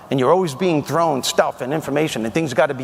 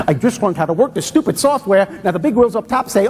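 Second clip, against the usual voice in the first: whiny self-talk; 3 semitones higher, faster than usual. Retold or imitated. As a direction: build the grumbling into an indignant gripe. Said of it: "This is negative self-talk".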